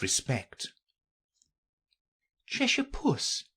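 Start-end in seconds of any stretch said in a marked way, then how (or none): 2.5-3.4 high, tentative call; timid. A narrator's reading. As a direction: address the cat timidly, pitched well up. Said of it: "she began rather timidly".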